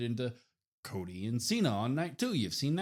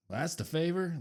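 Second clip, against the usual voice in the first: higher-pitched retold incredulous query; Roman's disbelief; 7 semitones higher than usual. Champion reacting to the favor, higher and unimpressed. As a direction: lift it into a mildly mocking question. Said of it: "Roman even says it".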